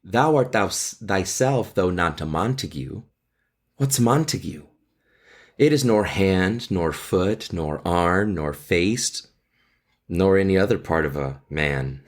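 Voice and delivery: a gently voiced Juliet, read to the class; Shakespeare read with feeling; dramatic reading. Teacher reads Juliet's balcony lines.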